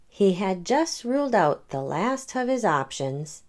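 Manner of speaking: gentle read-aloud storytelling; story narration. A narrator's reading. The speaker reading a picture book to children, gentle. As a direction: read it like bedtime for kids.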